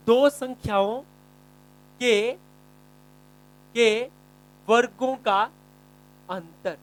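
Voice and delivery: slow dictation, pausing between phrases; spaced-out dictating voice; word-by-word dictation. Shown as a demonstration. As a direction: dictate it phrase by phrase for students to write. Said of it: "ध्यान से लिखना एक एक word".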